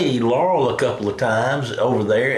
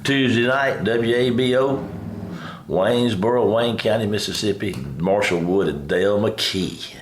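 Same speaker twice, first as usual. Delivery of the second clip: raspy voice. Acted. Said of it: "How you like my raspy voice?".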